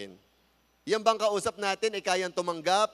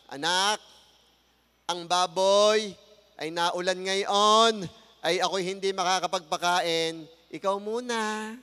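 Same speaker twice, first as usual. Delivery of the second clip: put-on mother asking child; 4 dB louder, slower than usual. Mother asking child in Batangas story.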